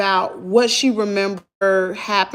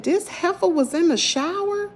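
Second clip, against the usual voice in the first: incredulous retort; 7 semitones higher, 3 dB quieter than usual. Retold or imitated. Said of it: "I said".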